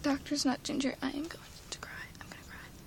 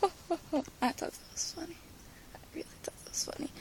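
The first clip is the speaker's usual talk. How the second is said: laughing; 3 semitones higher, 5 dB quieter than usual. Real, not acted. Vlogger enjoying her own joke, laughing. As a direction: chuckle through it.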